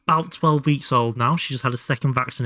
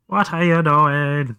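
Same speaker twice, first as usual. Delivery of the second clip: put-on slow, higher baby-talk question; cutesy pet voice; 3 semitones higher, 5 dB louder, slower than usual. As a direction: coo it at the kitten, drawn out. Playful question to kitten.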